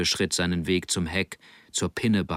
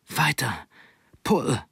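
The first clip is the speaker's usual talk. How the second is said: higher-pitched call to keep going; urging shout; 4 semitones higher than usual. Acted. Boy urging his friend to keep paddling, urging shout. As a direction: urge your mate on in short calls.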